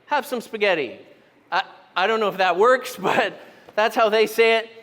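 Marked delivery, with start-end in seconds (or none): 0.0-1.0 put-on kids' silly rhyme. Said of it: "my kids say".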